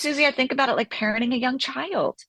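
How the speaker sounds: ordinary delivery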